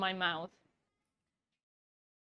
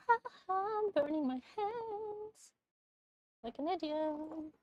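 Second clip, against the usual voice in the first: high strained laugh through pain; 9 semitones higher than usual. Real, not acted. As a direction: laugh off the burning, high-pitched. Burning hands on hot cake.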